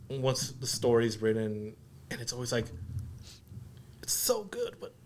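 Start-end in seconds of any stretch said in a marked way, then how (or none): 4.0-4.9 hushed, half-whispered aside; wistful regret. Retold or imitated. Actor wishing the film were longer, hushed regret. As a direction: say it softly, almost under the breath.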